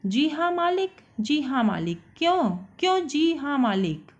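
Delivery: mock him, spluttering with anger; angry stammer. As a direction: echo her words, sputtering. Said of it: "गुस्से से तुतलाने लगता है".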